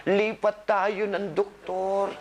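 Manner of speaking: slow, drawn-out teasing quote; lightly put-on complaint, very slow; mock patient excuse. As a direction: imitate a patient's excuse, dragging the words. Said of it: "yung isa pa ninyo sinasabi".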